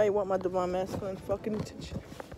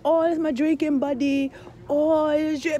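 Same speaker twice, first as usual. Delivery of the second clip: mock girly voice; 8 semitones higher, 6 dB louder than usual. Mocking the girl's excuse again.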